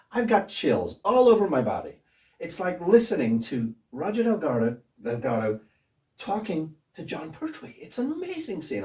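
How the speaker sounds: thrilled. Retold or imitated. Director amazed by the audition, high excited voice. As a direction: gush in amazement, voice lifting high.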